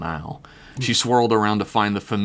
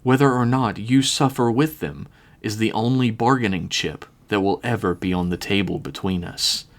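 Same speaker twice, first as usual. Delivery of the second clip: smooth and arrogant. Acted. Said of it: "spoke smoothly, a slight hint of arrogance".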